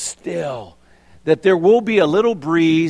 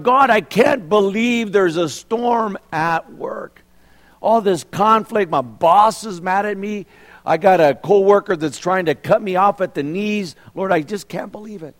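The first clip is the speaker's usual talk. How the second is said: mock whining prayer; 4 semitones higher than usual. Worker whining to God about boss, mock complaint. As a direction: whine at God about work.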